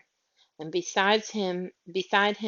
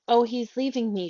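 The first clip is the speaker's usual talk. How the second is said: a mild read-aloud shriek, higher and louder; 5 semitones higher, 4 dB louder than usual. Acted. Miss Lark as Andrew prepares to depart, mild shriek. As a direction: cry out in mock panic. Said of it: "shrieked Miss Lark".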